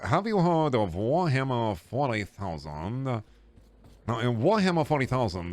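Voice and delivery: a shy collector showing off his figurines; nerd voice. Pretend. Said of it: "that's the voice you're getting for that one".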